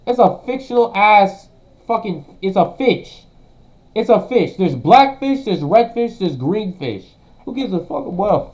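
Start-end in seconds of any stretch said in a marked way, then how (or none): 0.1-7.0 loud, higher, exasperated yelling; angry rant. Real, not acted. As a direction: shout it like it's obvious. Streamer ranting about mermaid casting.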